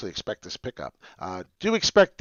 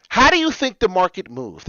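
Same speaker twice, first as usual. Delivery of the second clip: higher and louder, shouting the question; passionate shout; 8 semitones higher, 9 dB louder than usual. Real, not acted. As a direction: yell it out of passion for the market. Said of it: "I'm screaming 'cause of my passion".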